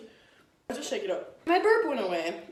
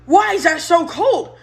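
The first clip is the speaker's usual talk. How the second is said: surprised; 5 semitones higher, 5 dB louder, slower than usual. Real, not acted. After chugging icy pop.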